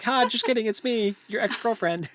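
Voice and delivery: high, hammed-up unmasking gotcha; mock villain reveal. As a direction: play the Scooby-Doo villain pulling off the mask. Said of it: "rip their face off like a Scooby-Doo mask and be like".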